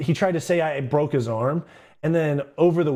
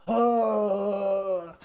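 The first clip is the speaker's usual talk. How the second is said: high strained groan; mock pained groan, pitched up; 8 semitones higher than usual. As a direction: groan like you just got knocked down hard. Kid groans when pushed down.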